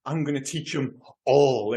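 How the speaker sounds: slow, drawn-out villain sign-off; Dolph Lundgren. Retold or imitated. Co-host savouring the speech's last line, slow imitation. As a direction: lightly imitate the film soldier's stretched last word. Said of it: "he delivers it so per".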